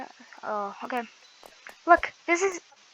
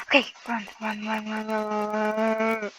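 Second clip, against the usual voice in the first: whispered. Real, not acted. Whispered urging in game.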